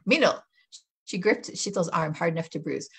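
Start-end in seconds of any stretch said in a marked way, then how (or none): 0.0-0.4 loud sharp call of a name. A narrator's reading. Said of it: "snapped Radhika Foy".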